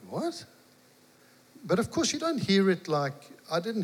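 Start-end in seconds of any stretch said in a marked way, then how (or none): 0.1-0.5 startled what. Retold or imitated. Hearing a voice inside.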